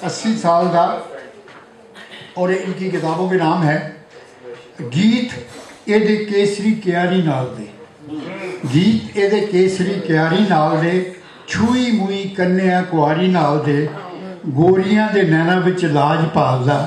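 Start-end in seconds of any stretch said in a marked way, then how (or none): 0.1-0.9 rhythmic verse, line by line; poetry recitation. Acted. Poet honouring a friend turning eighty, rhythmic recitation. Recites birthday poem to audience. 4.9-16.8 rhythmic verse, line by line; poetry recitation. Acted. Poet honouring a friend turning eighty, rhythmic recitation. Recites birthday poem to audience.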